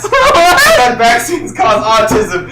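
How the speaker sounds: slow, loud, laughing shout. Acted. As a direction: belt it out through laughter. Reading absurd fanfic, shouted.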